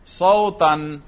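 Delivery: صوتن ending in -an, sautan; صوتن with the nasb -an ending; accusative ending. Shown as a demonstration. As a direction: say صوتن as "sau-tan", with an a before the n. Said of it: "نصب کا تلفظ کرو".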